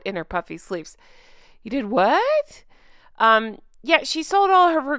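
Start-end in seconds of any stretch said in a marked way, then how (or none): 1.6-2.6 slow, stretched-out mock shock, odd voice; devastated Charlotte impression. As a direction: drag out the disbelief, wide-eyed. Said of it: "This is Charlotte's devastated face".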